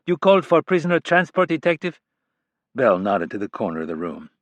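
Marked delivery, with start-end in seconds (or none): 0.0-2.0 put-on Hispanic accent. A narrator's reading. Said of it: "in a Hispanic accent".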